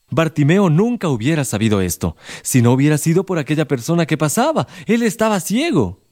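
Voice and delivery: ordinary talk, nothing marked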